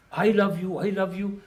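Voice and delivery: I leaned on in I love you; stress on I. Shown as a demonstration. Teacher mimics lovers stressing I over you. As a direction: hit the word I each time, mocking self-love. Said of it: "their whole emphasis on I".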